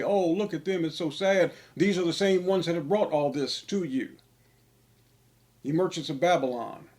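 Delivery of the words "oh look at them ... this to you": raised, sing-song fake sympathy; mocking people who pity them on the news. Preacher mocks viewers feeling sorry, mock pity. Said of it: "feel pity and say".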